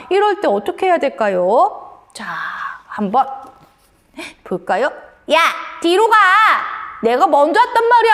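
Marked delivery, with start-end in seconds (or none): 5.3-8.1 put-on high, indignant child in a queue; hammed-up cross outburst; acted anger. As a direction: tell off a queue-jumper crossly. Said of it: "하면서 화를 내고 있어요".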